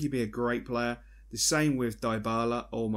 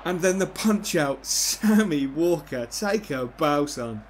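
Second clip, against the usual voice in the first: excited praise; 3 semitones higher, 6 dB louder, slower than usual. Real, not acted. Praising his keeper's save.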